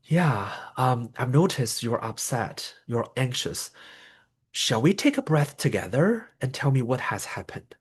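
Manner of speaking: gentle invitation. Shown as a demonstration. Coach showing the right way to calm someone, gently. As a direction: offer to breathe together as a calm ally. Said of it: "we invite them to take a breath".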